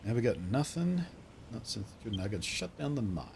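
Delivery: lightly voiced rustic local; a hint of wistful character voice; game townsperson guide. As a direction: show a newcomer round the faded town.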